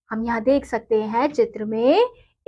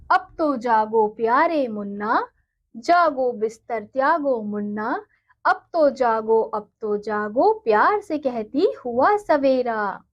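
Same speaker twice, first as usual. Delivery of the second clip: put-on slow, sing-song reading of a children's poem; poem recitation. Teacher reading a poem to her students, slow and sing-song. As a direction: recite it gently and slowly for the class.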